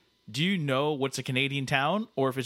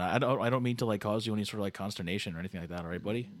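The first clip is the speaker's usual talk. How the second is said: lightly voiced over-polite Canadian; Canada Dave, apologetic; 3 semitones lower than usual.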